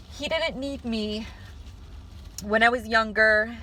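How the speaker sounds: real crying voice breaking through; fighting tears. Real, not acted. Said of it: "I'm fighting crying, so I'm gonna sound ugly".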